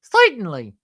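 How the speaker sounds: slapstick stooge catchphrase; Curly from the Stooges. Shown as a demonstration. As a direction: do the stooge's comic word. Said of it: "sound like Curly and Moe from".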